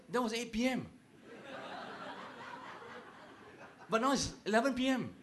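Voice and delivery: hammed-up husband insisting the quarrel is over; mock pleading husband. Husband argues with wife at night.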